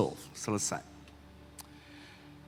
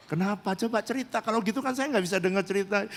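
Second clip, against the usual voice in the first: coaxing; 7 semitones higher, faster than usual. Retold or imitated. Counselor urging sobbing woman to talk.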